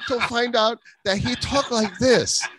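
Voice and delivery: high, hammed-up put-on accent; mock Asian accent. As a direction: play a foreign character shooing listeners off. Teasing about the accent.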